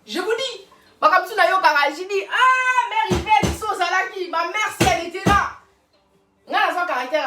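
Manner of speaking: loud, high outburst about mère Yvette; excited exclamation. Real, not acted. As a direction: call out her name with feeling. Exclaims about late mother.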